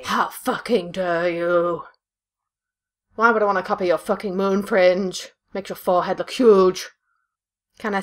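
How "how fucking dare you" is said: mock offended.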